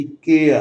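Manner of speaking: केयर with e sliding into a short a, not ye; diphthong demo. Shown as a demonstration. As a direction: open केयर with an e-a glide. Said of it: "ए और ए को मिलाकर बना है".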